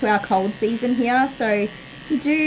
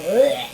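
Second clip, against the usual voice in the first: disgusted groan; 5 dB louder than usual. Retold or imitated. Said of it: "every time I'm out there going".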